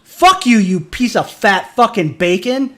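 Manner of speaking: loud, high angry insult, slow on the last line; real angry yell; furious outburst. Real, not acted. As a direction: spit it at the cop in real rage. Furious rant at the cop.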